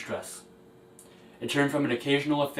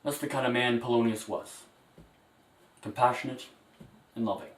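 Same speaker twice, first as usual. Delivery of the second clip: faltering tender eulogy. Acted. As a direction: speak gently, holding back tears. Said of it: "A very, very emotional moment".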